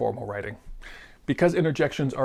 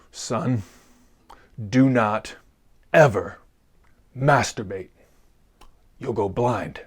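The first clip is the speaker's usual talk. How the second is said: serious father; 3 semitones lower, slower than usual. Retold or imitated. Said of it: "he said very seriously".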